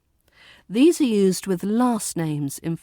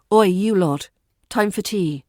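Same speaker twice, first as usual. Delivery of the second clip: playful call-out; 5 dB louder than usual. Shown as a demonstration. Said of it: "a touch of humour".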